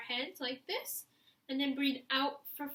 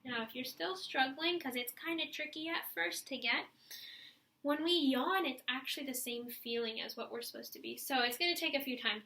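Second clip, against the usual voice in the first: ordinary talk, nothing marked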